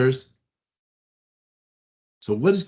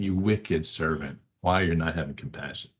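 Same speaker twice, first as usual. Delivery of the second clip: lower, softer disappointed master; quiet rebuke; 6 semitones lower, 3 dB quieter than usual. Acted. Pastor voicing God, low and disappointed. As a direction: say it low, like a sorrowful judge. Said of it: "And he's saying".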